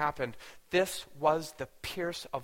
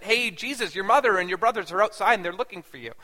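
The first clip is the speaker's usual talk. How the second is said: calling out; 5 dB louder than usual. Retold or imitated. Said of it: "Jesus was told in front of a packed audience".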